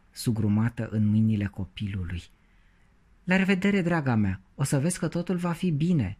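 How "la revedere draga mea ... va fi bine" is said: encouraging. A narrator's reading. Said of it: "spuse încurajator și cu totodată compătimitor".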